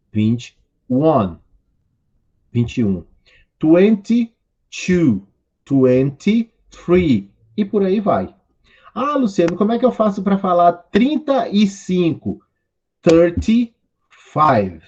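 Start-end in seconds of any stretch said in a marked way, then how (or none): 3.6-7.3 slow model reading. Shown as a demonstration. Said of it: "vocês podem ir repetindo aí comigo". 8.9-12.4 student asking. Acted. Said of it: "student asking the teacher". 13.0-14.8 slow model reading. Shown as a demonstration. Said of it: "vocês podem ir repetindo aí comigo".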